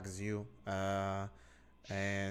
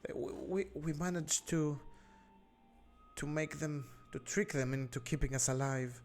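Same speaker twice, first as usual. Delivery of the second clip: a higher, worried mother's voice; anxious captive mother; 4 semitones higher than usual. Acted. Captive mother tells the adventurers how she survived, higher and anxious. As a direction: hurry through her story, frightened.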